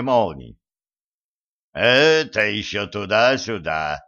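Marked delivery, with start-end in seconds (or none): 1.7-4.0 booming. Acted. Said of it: "прогремел Марс".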